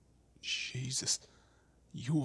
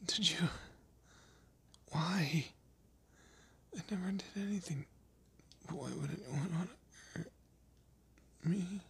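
higher-pitched, wounded disbelief; hurt, pleading; 6 semitones higher than usual. Acted. Asking why anyone would hurt them, hurt and pleading. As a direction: plead in broken, halting bits.

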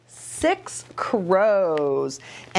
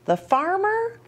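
put-on reading to children; 4 semitones higher than usual. Reads story to children.

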